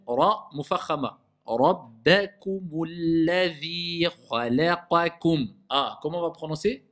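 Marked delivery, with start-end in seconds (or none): 1.4-5.5 slow chanted recitation with a heavy ra; Quran recitation. Acted. The teacher recites the verse, stressing the heavy ra. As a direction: recite slowly, the ra full.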